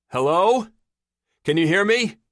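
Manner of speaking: man yells back to the trapped woman; yelling back. A narrator's reading. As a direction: call out to reassure her. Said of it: "I yell back".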